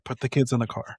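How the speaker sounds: mock-alarmed, insistent parent; urgent order. Wary parent repeating the order, urgent mock alarm. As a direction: press the order home, firmer and fuller.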